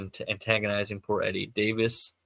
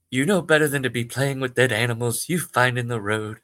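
British mother; 2 semitones higher, 4 dB louder than usual. Acted. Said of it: "I don't know why she's British".

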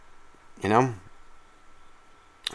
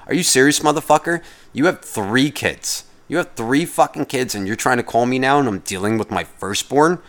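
annoyed rant; 3 semitones higher than usual. Retold or imitated. Imagined rant at caller.

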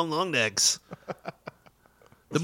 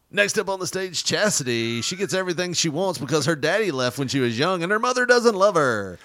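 hammed-up club announcer hyping the next dancer; mock strip club DJ. DJ announcing Chastity to the crowd, hammed-up. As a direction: sell the stripper like a cheesy DJ. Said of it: "my inner strip club D J guy".

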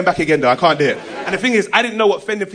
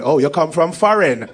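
Jamaican policeman; slower than usual. Retold or imitated.

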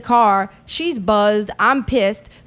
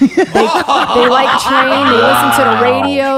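loud retold tirade about common people; angry, passionate rant; 2 semitones higher, 5 dB louder than usual. Daughter warning mom off common people, angry rant replayed. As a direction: rant with heated disdain, voice raised. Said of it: "'cause I'm angry, and, and that passion comes out".

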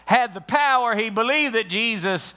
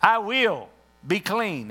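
emphatic; slower than usual. Retold or imitated. Jesus answering the sick man's question, emphatic. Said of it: "Jesus' answer is very emphatic".

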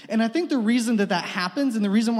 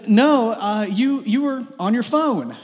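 stern cop; 4 semitones higher, 6 dB louder, slower than usual. Retold or imitated. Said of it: "he goes".

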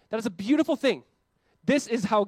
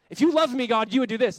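put-on pleading child voice, higher and louder; whiny child; 6 semitones higher, 7 dB louder than usual. Preacher mimics a child demanding things of God, whiny. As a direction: beg God like a demanding kid. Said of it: "This is what children do".

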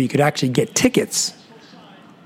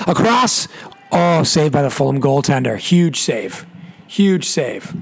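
live play-by-play. Acted. Live match call.

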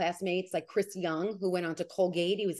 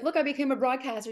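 quick, higher, louder excited boast; 7 semitones higher, 5 dB louder, faster than usual. Retold or imitated. Reporter telling her old coach, excited and quick. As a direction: tell her proudly, fast and loud. Quoting herself to Jill.

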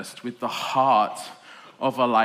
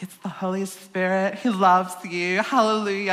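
higher, louder, fervent imitation of the friend; charismatic friend; 8 semitones higher, 6 dB louder than usual. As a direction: gush it like an excited charismatic believer. Friend voiced in charismatic fervor.

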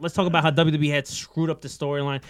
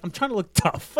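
laughing; 9 semitones higher, 8 dB louder than usual. Retold or imitated. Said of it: "And you were like".

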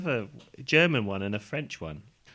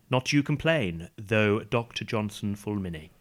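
the poem again, read a little faster; quicker poem reading. Shown as a demonstration. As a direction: run through the poem quicker. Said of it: "shall I read it again quickly".

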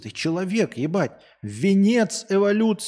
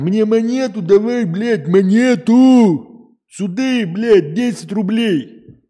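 put-on angry drunk bum rant; 2 semitones higher than usual. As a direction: rant like a foul-mouthed alcoholic beggar. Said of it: "я бы вот так вам бы отвечал".

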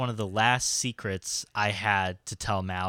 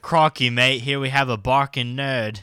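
Steve Irwin impression; 5 dB louder than usual. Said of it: "pulling a Steve Irwin on them".

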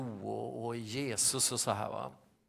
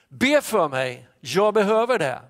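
commanding demand; 7 semitones higher, 12 dB louder than usual. Retold or imitated. Barber demanding a prayer in the middle of his salon, loud command. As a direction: order it in front of everyone. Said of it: "det var en befallning".

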